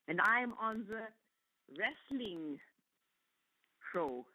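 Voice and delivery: a hint of the stern doctor, drawn out. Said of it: "can you actually do your Doctor, Doctor O voice".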